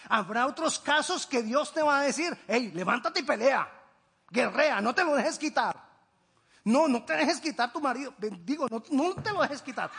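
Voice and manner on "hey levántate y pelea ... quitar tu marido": louder, urgent push; rally the listener to stand and fight; fiery exhortation; rousing call to fight. Acted. God urging to fight.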